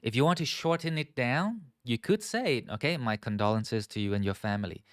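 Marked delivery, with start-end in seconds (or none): 3.1-4.8 soft, modest condolence. Shown as a demonstration. Teacher models a modest condolence for students. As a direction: say it gently and humbly. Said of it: "with a modest tone".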